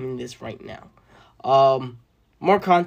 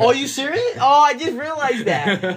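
surprised; 13 semitones higher, 9 dB louder than usual. Real, not acted. Surprised reaction to late realization.

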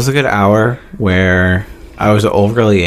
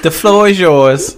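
laughing; 6 semitones higher, much slower than usual. Real, not acted. Laughing, slowed grand handover.

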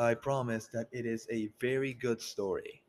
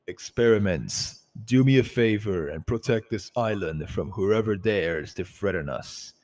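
commanding leader voice; 8 dB louder than usual. Acted. Tenebris addresses experiments.

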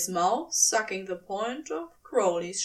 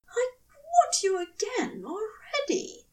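grumbled; 11 semitones higher than usual. A narrator's reading. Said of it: "the angel grumbled".

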